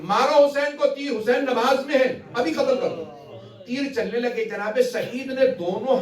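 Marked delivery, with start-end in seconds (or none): 0.0-3.0 raised, higher call to shoot; enemy calling out. Retold or imitated. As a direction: bark the order to fire arrows. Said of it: "عمر سعد نے آواز دی".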